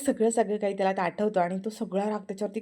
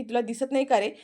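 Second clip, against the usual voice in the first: angry; 3 semitones higher than usual. Acted. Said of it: "Aarti रागारागात".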